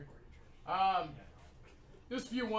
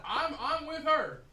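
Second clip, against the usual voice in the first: slow laughing repeat; 6 semitones higher, 3 dB louder, slower than usual. Real, not acted. Repeats claim slower, laughing.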